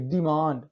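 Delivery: डिमांड pronounced "dee-mand"; long e sound. Shown as a demonstration. Teacher asks students to watch the pronunciation, ee in डिमांड. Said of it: "pronounce भी देखिए".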